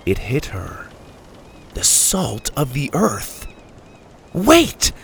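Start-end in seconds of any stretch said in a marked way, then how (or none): 4.3-4.9 high urgent call. A narrator's reading. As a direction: call out to stop the captain. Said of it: "she called back to the captain".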